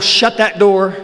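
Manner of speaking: panicked call. Retold or imitated. Bursting in, telling wife to shut door.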